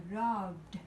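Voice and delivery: "robbed" with ED as a voiced d; d ending. Shown as a demonstration. Teacher reading example two, "robbed" ending in d. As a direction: finish "robbed" on a sounded d. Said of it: "khi nào sẽ phát âm là d".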